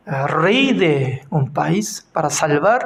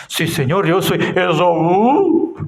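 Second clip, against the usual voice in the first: lying Jacob. Retold or imitated. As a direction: pass himself off as Esaú, calmly. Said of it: "¿cómo estaba diciendo?".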